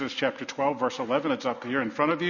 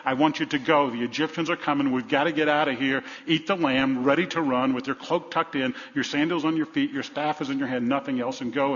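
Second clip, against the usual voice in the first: pressing instructions with mild urgency; urgent, insistent retelling. Retold or imitated. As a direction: press them to get moving. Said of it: "This was an urgent tone".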